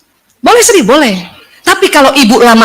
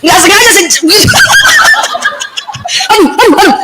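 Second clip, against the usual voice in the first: higher, rapid string of aduh; mock wailing; 9 semitones higher, much faster than usual. Playing a fed-up wife for the audience, mock wailing. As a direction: play up the moaning complaint. Acts out upset outburst, laughs.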